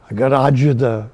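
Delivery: Italian lady. Retold or imitated. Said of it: "I'd ask an Italian lady".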